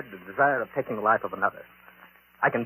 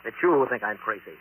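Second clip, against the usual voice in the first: higher-pitched, affronted denial; indignant protest; 4 semitones higher than usual. Acted. Professor denies saying it to his publisher, indignant. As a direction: protest the accusation sharply.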